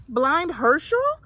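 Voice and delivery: high, loud, slow astonished cry; can't believe the blind boy made them; disbelieving. A narrator's reading. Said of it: "Hava exclaimed in disbelief".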